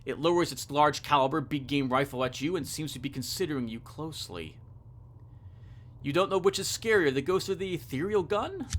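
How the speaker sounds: measured second-person storytelling; story narration. A narrator's reading. Describing a ghost hunter's appearance, story narration. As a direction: set the scene like a game master. Reads the game's story text.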